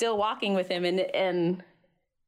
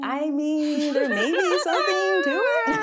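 joking mock agreement; 8 semitones higher, 5 dB louder, slower than usual. Mock answer to mom.

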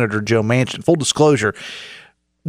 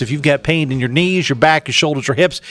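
upbeat radio sponsor read; 2 semitones higher than usual. Acted. Host reads sponsor spot live.

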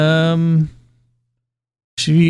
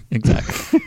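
high, nasal-free nerdy squeak; nerd voice; slower than usual. Acted. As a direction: play the smug nerd. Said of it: "I like that variation on the nerd voice".

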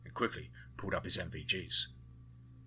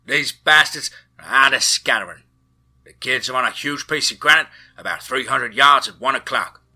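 loud report over crackling comms, higher; radio call; 4 semitones higher, 14 dB louder than usual. A narrator's reading. Co-pilot reporting over the comms, loud radio shout. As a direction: shout it into the headset over rotor noise. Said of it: "The comms crackled".

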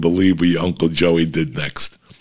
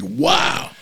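a stunned, squeaky wow; amazed wow. Retold or imitated. Dad reacting to the swearing crowd, stunned. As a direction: leap far higher in astonishment. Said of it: "I'm like".

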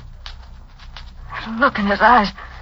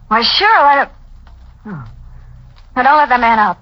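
panicky refusal; 9 semitones higher, faster than usual. Acted. Realising danger, refusing.

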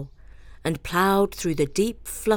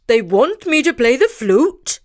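stammered; 4 semitones higher, 6 dB louder than usual. A narrator's reading. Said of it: "he stammered".

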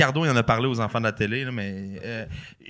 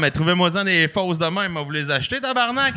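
exasperated retort; 5 semitones higher than usual. Retold or imitated. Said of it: "j'étais comme".

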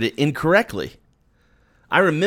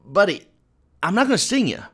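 scorpion's sly promise; 3 semitones higher than usual. Retold or imitated. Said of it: "the scorpion says to the frog".

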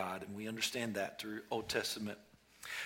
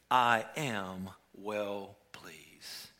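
very slow, breathless whisper; a very slow whisper of divine approval; heavenly whisper; 5 semitones lower, much slower than usual. Acted. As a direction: let God's voice fade to a whisper. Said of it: "the voice from heaven called out".

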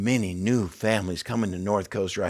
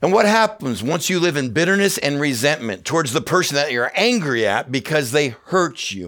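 louder, higher preaching push; rising preaching; 5 semitones higher, 4 dB louder than usual. Real, not acted. Pastor driving his point home to the church, louder. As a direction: build it up from the pulpit.

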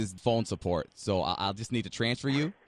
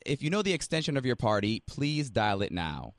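phone menu voice. Acted.

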